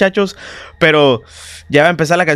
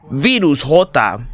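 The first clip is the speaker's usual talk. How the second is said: ordinary talk, nothing marked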